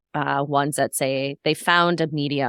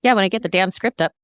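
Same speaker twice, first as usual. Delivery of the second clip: quick, testy retort; brisk, slightly irritated comeback; mildly aggressive; 4 semitones higher, faster than usual. Real, not acted. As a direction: snap back in a hurry.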